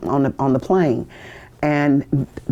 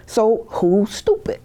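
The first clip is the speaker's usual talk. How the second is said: slow, higher, drawn-out jab; drill instructor; 7 semitones higher, slower than usual. Retold or imitated. Instructor asks the recruit a last time, slow mock sternness. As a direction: drag it out to make him admit it.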